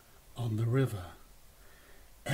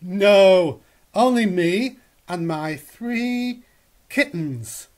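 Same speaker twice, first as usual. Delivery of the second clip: lightly voiced cat; 3 semitones higher, 9 dB louder, slower than usual. The cat answers Goz.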